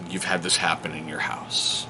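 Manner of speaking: hushed confiding whisper; conspiratorial whisper to the viewers. Real, not acted. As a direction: lean in and whisper it to other parents. Parent confiding aside.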